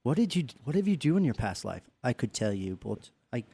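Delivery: secretive hush. Retold or imitated. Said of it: "You could just go".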